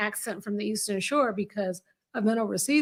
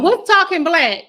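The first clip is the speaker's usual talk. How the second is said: louder, higher, slow laughing question; laughing disbelief; 6 semitones higher, 8 dB louder, slower than usual. Real, not acted. Friend questions Carla's phrase, loud laughing disbelief.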